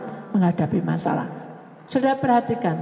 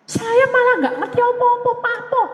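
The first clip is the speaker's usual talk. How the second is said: mocking voice; 11 semitones higher than usual. A preacher mocking people afraid of spirits in a high put-on voice. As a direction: squeal like someone spooked by spirits.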